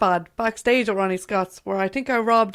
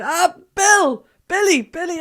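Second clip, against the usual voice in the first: calling out; 8 semitones higher, 6 dB louder, slower than usual. Retold or imitated. Tipsy greeting across backstage room.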